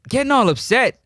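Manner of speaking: indignant incredulous repeat; incredulous echo. Real, not acted. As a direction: echo the words back in disbelief, pitch jumping up.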